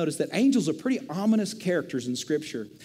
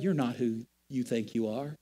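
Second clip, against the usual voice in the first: taunting enemy voice; 2 semitones higher than usual. Retold or imitated. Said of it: "he can go".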